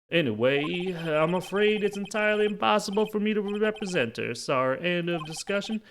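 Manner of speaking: Marvin Grossberg. Acted. Lawyer refusing to represent her, flustered and final. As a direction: hurry to close the subject.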